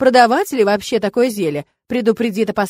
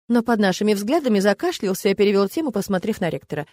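usual speaking voice

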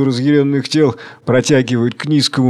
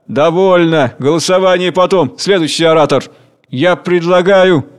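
raised, heated voices; arguing crowd; 4 semitones higher, 3 dB louder than usual. Acted. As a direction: cut each other off loudly. Arguing meeting.

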